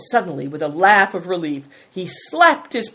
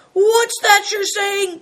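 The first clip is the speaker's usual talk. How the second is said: high, loud, drawn-out disbelief; shocked, indignant question; startled cry; 5 dB louder, slower than usual. A narrator's reading. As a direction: jump up and cry it out. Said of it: "cried Greencoat, jumping up".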